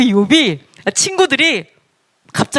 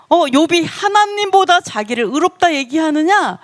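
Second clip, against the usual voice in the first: higher, slower mock-indignant question; angry challenge; 4 semitones higher than usual. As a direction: act out a mildly angry accusation, drawn out. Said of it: "막 화를 내면서". (화내는 흉내로 느리게 따져 묻기)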